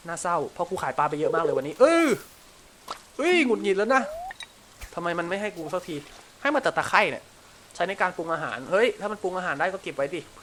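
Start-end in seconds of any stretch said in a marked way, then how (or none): 3.2-4.0 annoyed outburst. Real, not acted.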